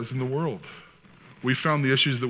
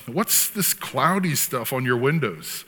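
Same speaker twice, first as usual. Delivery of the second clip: 模仿律师慢问; slower than usual. Retold or imitated. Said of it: "he's interviewing this guy".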